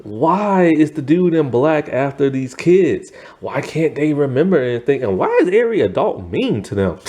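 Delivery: freaking out. Retold or imitated. Eddie freaking out at the strange events, in high mock panic. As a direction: play a spooked boy asking what is going on. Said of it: "Eddie's just freaking out".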